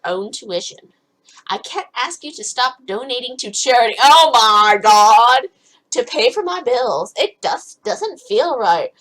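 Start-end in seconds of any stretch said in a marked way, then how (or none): 4.0-5.5 loud, slow "oh my God"; drawn-out exclamation. Acted. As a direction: stretch it out loud and exasperated. Exasperated mid-scene reaction.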